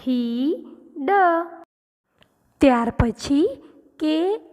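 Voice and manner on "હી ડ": long હી, pause, then ડ; blended reading. Shown as a demonstration. Teacher showing children the spelling they built, sounded out. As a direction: sound out હી as one piece, then add ડ. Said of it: "spelling બનશે".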